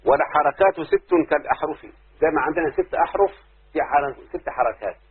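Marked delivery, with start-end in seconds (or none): 0.1-1.8 recited verse. Shown as a demonstration. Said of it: "أما الناظم يقول ايه".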